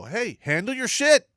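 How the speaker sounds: loud, high drill-sergeant bark; half-shouted order to handle it; tough-love yell. Retold or imitated. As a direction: yell it at a whining soldier. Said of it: "look him in the face and go".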